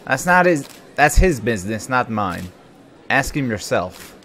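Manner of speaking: put-on dismissive cop; cop's voice. Cop refusing the press's question, irritable put-on voice. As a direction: snap back at the press like a cop. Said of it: "I'm doing the cop's voice".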